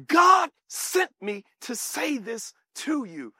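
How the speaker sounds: slow, word-by-word mild rebuke; stern angel. Acted. Gabriel rebuking Zacharias for rejecting God's message, slow and stern. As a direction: space out the words with weight.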